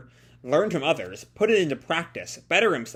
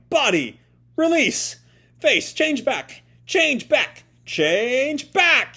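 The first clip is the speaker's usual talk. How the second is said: straining yell; 10 semitones higher, much slower than usual. Acted. Tokyo shouting, straining to force himself back. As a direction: push every word out hard, straining. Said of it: "He's just yelling".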